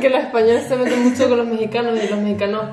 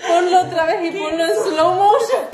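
laughing; 10 semitones higher than usual. Real, not acted. Still laughing after clip.

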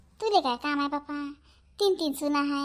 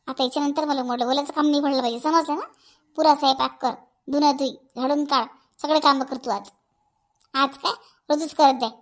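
firm, louder orders to a daughter-in-law; strict, no-nonsense telling-off; stern scolding; 3 dB louder than usual. Acted. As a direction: lay down the law, harshly. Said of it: "एवढ्या कडक भाषेत".

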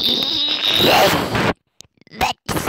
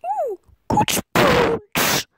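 high, slow cartoon dog; talking dog voice; 9 semitones higher, slower than usual. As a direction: drag it out like a silly pup. Voicing the dog.

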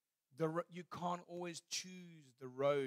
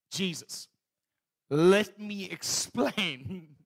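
pleading explanation; 3 semitones higher, 10 dB louder, much slower than usual. Pretend. Preacher voices himself arguing with Jesus.

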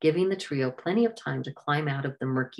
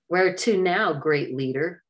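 a mocking jab, louder at the start; half sarcastic; 2 semitones higher, 4 dB louder than usual. Liam to Raja, half sarcastic. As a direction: needle him with fake respect. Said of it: "Liam was half sarcastic".

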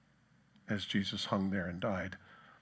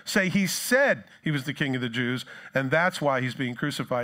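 raised, insistent objection; offended; 3 semitones higher, 4 dB louder than usual. Acted. Offended Jews correcting Pilate about the sign, offended. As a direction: object with mild indignation, punching the correction. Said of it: "The Jews were offended and said".

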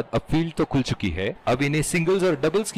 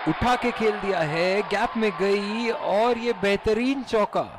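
excited cricket commentary; 6 semitones higher, slower than usual. Acted. Boundary shot called live.

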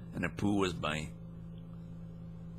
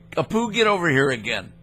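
calling out; 4 semitones higher than usual. Pretend. Calls supposed companion back over.

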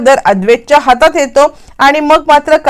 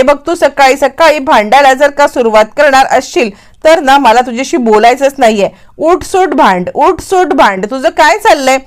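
irritated scolding; 2 semitones higher than usual. Acted. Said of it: "ती या सगळ्यामध्ये अद्वैतवरती चिडलेली असते".

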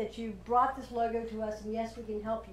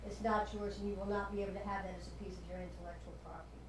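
somber tone. Acted. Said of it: "take the tone of voice down".

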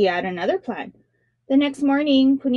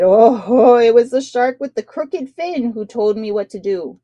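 louder, laughing teasing reply; 7 dB louder than usual. A narrator's reading. Punia laughingly tells the king who helped him. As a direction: chuckle through the taunt. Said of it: "Punia laughed and said".

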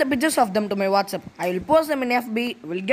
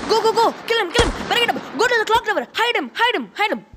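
excited gamer yelling; 7 semitones higher, faster than usual. Acted. Son playing Free Fire yells at his game, frantic and high. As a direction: bark orders at the screen like mid-battle.

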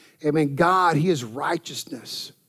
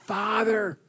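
higher and louder, a desperate call; hollering for help; 7 semitones higher, 4 dB louder than usual. Retold or imitated. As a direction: cry out like the blind man on the road. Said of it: "he just hollered out".

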